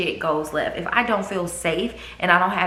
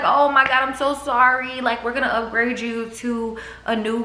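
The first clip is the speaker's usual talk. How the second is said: retold apology; 5 semitones higher than usual. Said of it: "she was like".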